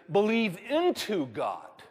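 slow phrase leaning on "into"; stress on INTO. Shown as a demonstration. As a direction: draw out "into" to show the preposition. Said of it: "the preposition in the original literally is".

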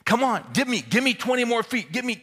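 very high, loud urging; yelling coach. Retold or imitated. Coach to shaking, sweating kid, urgent yelling.

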